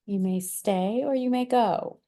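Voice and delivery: slow, lilting instruction to a little one. Real, not acted. Parent aside to small child.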